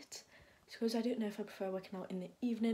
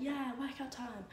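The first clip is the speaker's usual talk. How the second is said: mock cheer; 4 semitones higher than usual. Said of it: "I'm like".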